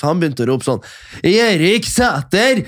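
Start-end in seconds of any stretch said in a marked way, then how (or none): 1.3-2.6 mock yell. Friend yelling names at awards.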